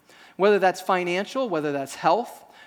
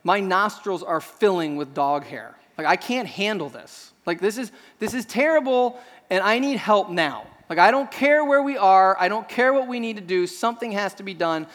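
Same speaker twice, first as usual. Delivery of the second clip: overwhelmed exasperation. Retold or imitated. Dog owner on a night road trip, overwhelmed by dog hair. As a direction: act out being at the end of your rope. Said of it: "I just get this overwhelming feeling like".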